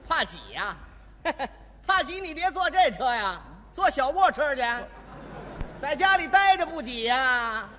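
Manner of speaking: surly conductor mocking a passenger who complains of crowding; rude conductor. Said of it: "今天我就扮演这位售票员".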